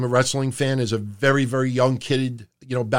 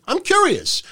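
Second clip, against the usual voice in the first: ordinary talk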